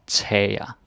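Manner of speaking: tager drawn out slowly, syllable by syllable; teacher slowing "tager" down for learners. Shown as a demonstration. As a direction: stretch "tager" out, slow and careful. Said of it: "if you want to say it very slowly".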